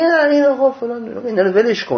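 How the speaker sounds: high, lightly mocking voice of someone brushing it off; mock dismissive listener. Preacher imitating a listener who waves off the teaching, high and airy.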